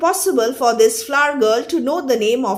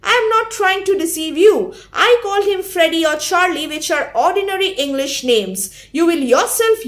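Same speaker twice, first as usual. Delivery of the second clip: clearly; 4 semitones higher, faster than usual. Shown as a demonstration. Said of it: "She tells her clearly".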